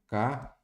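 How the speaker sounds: "café" split into two separate syllables. Shown as a demonstration. Teacher giving an example of the tonic syllable, syllable by syllable. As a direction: say "café" as two beats with a gap. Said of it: "sem separar em sílabas".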